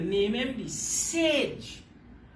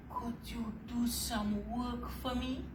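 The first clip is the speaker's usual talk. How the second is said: much softer, calm request; quiet voice; 8 dB quieter than usual. A narrator's reading. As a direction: ask it quietly like a patient god. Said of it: "the Sky God said in a quiet voice".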